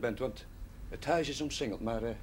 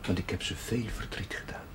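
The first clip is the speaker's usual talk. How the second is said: whispered message; 4 semitones lower than usual. Acted. Priest relays René's message.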